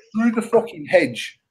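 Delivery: laughing through the words, slowed; can barely get it out for laughing; real giggle breaking into the story. Real, not acted. Laughing while telling the shot.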